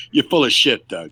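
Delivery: put-on polite New Zealand accent, lightly done. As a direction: soften it with a Kiwi lilt. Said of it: "in a very nice New Zealand accent".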